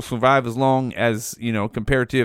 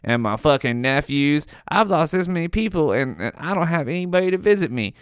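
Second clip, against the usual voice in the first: put-on lonely old person. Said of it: "they're like".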